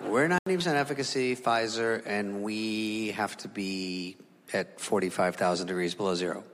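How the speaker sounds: mock proud Pfizer guy; smug spokesman. Pfizer guy, fading low.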